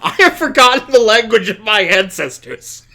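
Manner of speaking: a deliberately terrible French accent, played for laughs; bad French accent. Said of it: "bad French accent".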